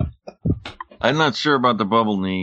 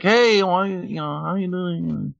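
put-on high-pitched Asian-accented landlady; 11 semitones higher, slower than usual. Landlady greeting her tenant, high Asian accent. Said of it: "I was doing Asian accent".

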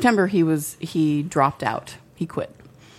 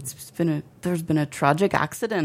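understated attempt at Irish; lightly faked Irish accent in usual pitch. Shown as a demonstration. Telling the world of the death, mild Irish accent. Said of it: "Do it in an Irish accent".

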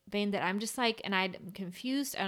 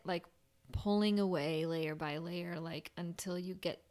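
ordinary talk

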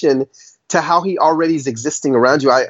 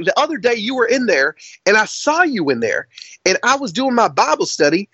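higher-pitched redneck twang; imitated redneck; 5 semitones higher than usual. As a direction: recount it as a put-on redneck. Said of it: "you do a really good redneck".

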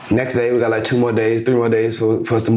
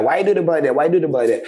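Ben's odd phrasing, voiced higher on the first line; imitating Ben's phrasing; 5 semitones higher, much faster than usual. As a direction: mimic the friend saying it his own odd way. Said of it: "Why is he saying it like that?".

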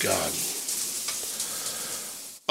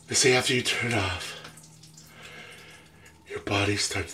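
breathless after cold shower; 5 semitones lower, 6 dB quieter, slower than usual. Real, not acted.

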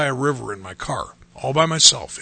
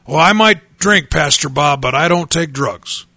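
mocking an excuse. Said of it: "how dumb that sounds to me".

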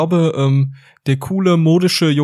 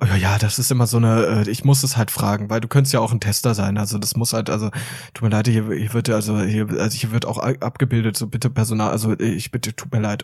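lower, mumbled cashier excuses, lightly voiced; flustered cashier; 5 semitones lower, 3 dB quieter than usual. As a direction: stammer like an awkward cashier asking for ID. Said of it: "dann sagen die immer". (verlegene Kassiererin, tiefer und leiser)

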